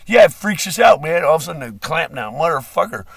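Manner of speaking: high, loud, fast mock yell of alarmed guards; hammed-up shouting guard. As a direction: blurt it out like panicked security. Voicing the dog catchers' reaction.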